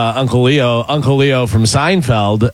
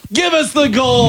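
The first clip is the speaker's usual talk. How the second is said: high, slow shouted Western line with a Southern twang; Uncle Leo cowboy shout; 12 semitones higher than usual. Retold or imitated. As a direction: bark it like a gunslinger uncle. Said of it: "He's like".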